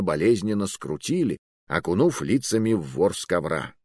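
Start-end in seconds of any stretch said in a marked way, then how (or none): none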